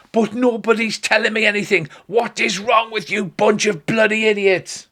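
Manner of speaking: high, exasperated mock tirade; hammed-up furious scolding; angry shouting. Irate dwarf woman berates the crowd.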